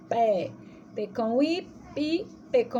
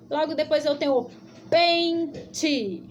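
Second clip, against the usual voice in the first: pente stretched slow and clear; slow teacher reading; 2 semitones higher, slower than usual. Shown as a demonstration. Teacher showing children the path, slow. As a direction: lay out each word slowly.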